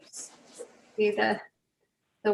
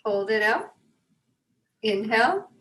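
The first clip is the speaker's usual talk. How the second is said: guided breathing. Real, not acted. Leads breathing exercise.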